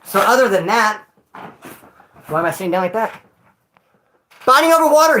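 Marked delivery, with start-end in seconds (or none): 4.3-5.2 real yell, high and loud. Real, not acted. Ranting to the stream about prison water, real high yell. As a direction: belt it out, caught up in the story. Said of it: "Why am I yelling?".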